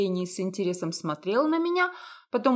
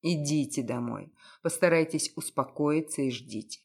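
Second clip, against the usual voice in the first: low, cynical, self-assured detective; lowered male detective voice; 6 semitones lower than usual. A narrator's reading. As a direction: lower voice, wry and blunt.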